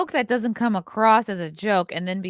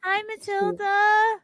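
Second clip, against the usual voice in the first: high, slow sing-song greeting; cooing to pet; 11 semitones higher, much slower than usual. Real, not acted. Greeting the co-host's dog Matilda, high slow coo.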